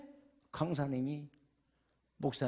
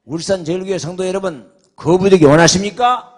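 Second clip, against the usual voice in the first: very loud, higher preacher's question; booming congregation call; 5 semitones higher, 20 dB louder than usual. Shown as a demonstration. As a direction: belt out the question to demand an answer. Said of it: "다시 기회를 드릴게요". (우렁차게 외치는 강사의 질문)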